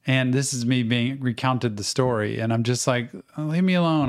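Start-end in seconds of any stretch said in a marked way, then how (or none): 3.4-4.1 irritated. Retold or imitated. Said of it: "I was irritated".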